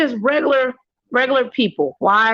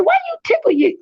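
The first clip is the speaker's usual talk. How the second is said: squeaky quote; much faster than usual. Retold or imitated. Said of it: "I asked the officer".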